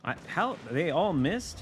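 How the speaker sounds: can't believe every shell missed; stunned disbelief. Real, not acted. Shocked all shots missed.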